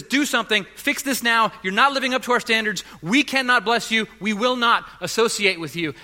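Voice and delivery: loud, high mock demand. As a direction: bark the standards like a stern judge. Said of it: "And it says".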